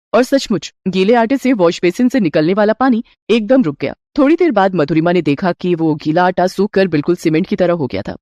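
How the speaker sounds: ordinary delivery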